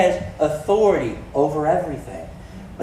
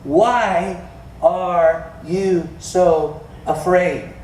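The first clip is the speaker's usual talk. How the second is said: slow, drawn-out asking; gentle slow question; much slower than usual. Acted. Jesus asking his frightened disciples, slow and gentle. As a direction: lean in and ask it slowly, gently. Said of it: "And he said to his disciples".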